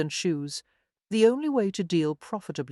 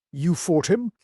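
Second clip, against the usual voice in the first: surprised; 3 dB louder than usual. Acted. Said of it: "a wealth of surprise".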